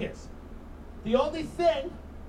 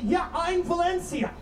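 smug millennial; 6 semitones higher than usual. Retold or imitated. Comic mimics a smug millennial.

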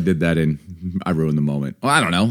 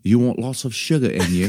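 amused, shaky attempt at British; British accent; 2 semitones higher than usual. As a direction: play along in a badly faked British accent. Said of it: "British accent talk off".

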